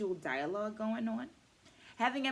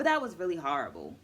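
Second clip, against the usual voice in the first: a blunt, louder, quick dismissal; tossed-off harsh verdict, said fast; mock crushing put-down; 5 dB louder, faster than usual. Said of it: "crushing comments like".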